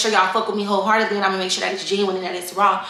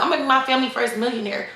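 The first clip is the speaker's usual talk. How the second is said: put-on old self; 3 semitones higher, faster than usual. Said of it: "I used to tell myself".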